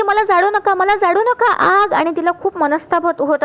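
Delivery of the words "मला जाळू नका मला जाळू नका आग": panicked scream. Retold or imitated. Pratima pushed into the fire begs not to be burned, screaming high. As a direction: cry out in terror, not too full-blown. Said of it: "प्रतिमा खूप जोराजोराने ओरडू लागते".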